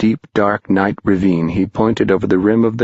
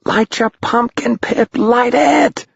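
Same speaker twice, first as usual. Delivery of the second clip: much higher, slow urgent shriek. Acted. Tom shrieking down to fallen Pipkin, high and urgent. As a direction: scream down into the dark. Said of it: "shrieked Tom".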